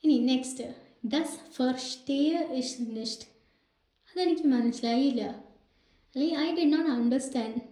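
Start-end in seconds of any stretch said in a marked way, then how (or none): 1.1-3.3 very slow, each word separated; slowly drawn-out classroom German; slow teaching demo. Shown as a demonstration. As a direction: spell the sentence out for learners. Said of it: "teacher demonstrating German phrase".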